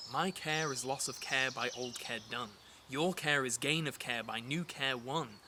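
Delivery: slow, deliberate monosyllables; nice and slow. Shown as a demonstration. Teacher models the monosyllabic lines, nice and slow. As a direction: give each short word its own weight. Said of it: "so nice and slow".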